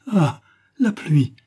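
slow, whispered gasp of hope; whispered delight. A narrator's reading. Widow spotting the rain, whispered excitement. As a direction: breathe the discovery to herself. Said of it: "se dit-elle".

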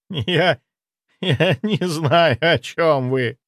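high, slow stammering denial; panicked denial. A narrator's reading. Zaitsev stammering a panicked denial to the necromancer. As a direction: stumble over the lie.

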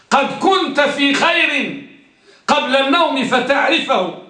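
example said through a laugh. Shown as a demonstration. Teacher reading the teasing example, laughing. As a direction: chuckle as you read it.

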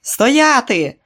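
high loud shout to halt; guard's shout. A narrator's reading. Guard yells at the fleeing pair, high and loud. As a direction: stop them in their tracks.

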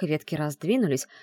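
plain reading voice

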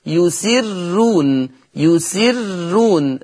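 يسرون with a light, thin doubled ر; thinned ra. Shown as a demonstration. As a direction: hold the ر of يسرون long and keep it light. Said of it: "فيقرأ ورش بالترقيق". (يسرون بترقيق الراء)

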